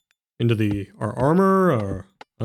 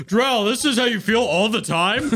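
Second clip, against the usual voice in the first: much higher, delighted and laughing; giddy high character voice; 11 semitones higher than usual. Acted. Character asks Drell if this is how it feels, high and giddy. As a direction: marvel at your new size in a squeaky voice. Character marvels at being huge.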